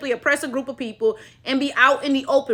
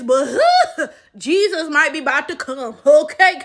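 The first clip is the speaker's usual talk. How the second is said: laughing, slowed joke. Real, not acted. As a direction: laugh through the punchline. Laughing joke about Jesus.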